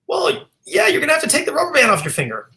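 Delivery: put-on very high old-lady New York accent; New York Jewish accent. Elderly woman solves finger riddle, high New York Jewish accent. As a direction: imitate an elderly Jewish New Yorker catching on. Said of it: "And she said".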